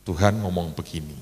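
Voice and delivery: low, softened private aside; quiet and low, not quite whispered; confiding murmur. Retold or imitated. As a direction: lightly imitate a hushed word to a colleague. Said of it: "saya bisikin".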